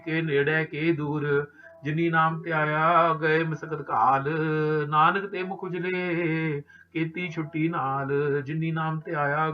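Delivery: steady chanted recitation of Gurbani; scripture recitation. Acted. Granthi reciting Gurbani to the sangat, steady devotional recitation. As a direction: recite each verse with devotion, measured. Recites Japji Sahib verses.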